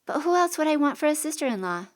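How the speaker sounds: put-on high kid's plea; pleading boy. A narrator's reading. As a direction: beg her, young and hopeful.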